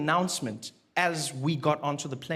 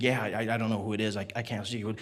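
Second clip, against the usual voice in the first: confused official; 7 semitones lower, 4 dB quieter than usual. Retold or imitated.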